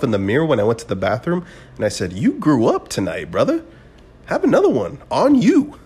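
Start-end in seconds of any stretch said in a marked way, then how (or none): 2.1-5.8 rising to an excited shout; cheering yourself on after a mature moment; hyped self pep talk. Retold or imitated. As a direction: pump yourself up in the mirror.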